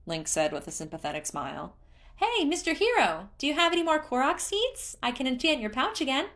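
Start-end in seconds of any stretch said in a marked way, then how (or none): 2.2-6.3 very high, loud cheer; cheerful creature. A narrator's reading. Hestu spotting Link, cheering in a very high voice. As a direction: squeal with glee at a friend.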